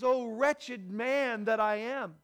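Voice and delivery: drawn-out, slow quoted cry; impassioned lament. Retold or imitated. Preacher voicing Paul's struggle to the congregation, slow impassioned lament.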